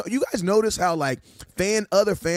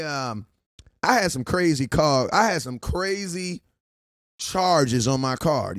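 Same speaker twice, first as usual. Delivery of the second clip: pretend phone call; 2 semitones lower than usual. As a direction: play it innocent to the card company. Pretend call to credit card company.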